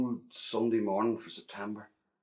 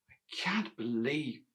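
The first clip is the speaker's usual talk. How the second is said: delighted; 4 semitones higher, 5 dB quieter, slower than usual. Acted. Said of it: "my mother was delighted".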